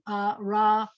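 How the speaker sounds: "uh, ra" as separate syllables ending on the vowel; open syllables. Shown as a demonstration. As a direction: leave each of "uh, ra" open on its vowel. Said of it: "end it with a vowel sound".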